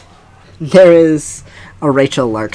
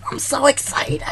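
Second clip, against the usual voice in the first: whispering; 12 semitones higher, 3 dB quieter than usual. Real, not acted. Giddy start of new recording.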